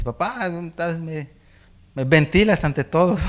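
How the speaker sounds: a hint of a whining teenage son; son's complaint. Teenage son protesting to dad in church, mild whine. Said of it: "Isaac me dice".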